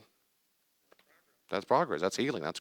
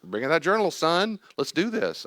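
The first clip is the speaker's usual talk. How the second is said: rallying self-talk; 9 semitones higher, 5 dB louder than usual. Acted. Briskly rallies self to work.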